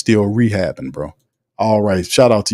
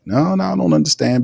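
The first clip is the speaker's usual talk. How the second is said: mock retort; 7 semitones higher than usual. Mock reply in acted argument.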